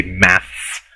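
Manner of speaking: "maths" with an S sound on the end; British term. Shown as a demonstration. Lecturer quoting the British word, "maths" with final S. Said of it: "as the British say".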